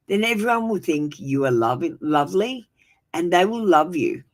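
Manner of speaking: tired, worn-out voice; exhausted. Real, not acted. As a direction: sound drained and tired. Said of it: "you can hear the tiredness in my voice".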